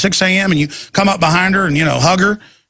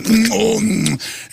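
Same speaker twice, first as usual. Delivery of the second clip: leering mm; 4 semitones higher, much slower than usual. Retold or imitated. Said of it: "men are just going".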